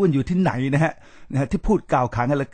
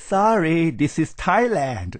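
very slow, stretched-out sorry with a falling tune, mocking; mock drawl; 4 semitones higher, much slower than usual. Mimicking returnees who choose to speak English, slow mock drawl. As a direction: drag it out like a smug returnee showing off. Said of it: "กลับมาเลือกพูดภาษาอังกฤษ".

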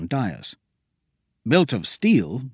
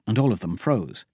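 usual speaking voice

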